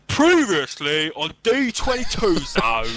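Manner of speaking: slow London accent; London accent, drawn out. Shown as a demonstration. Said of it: "A London accent".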